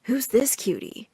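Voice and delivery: slow, hushed flirty question; quiet, admiring undertone; soft murmur. A narrator's reading. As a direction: say it softly, drawn out. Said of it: "someone whistle softly".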